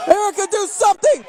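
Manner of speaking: loud plea; desperate shout. Real, not acted. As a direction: call out for help. Shouting to Erica.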